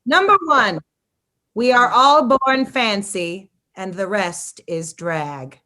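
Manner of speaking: slow, drawn-out mock-proclamation; annoying voice. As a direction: read it like an annoying, pompous manifesto. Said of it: "read it in this annoying voice".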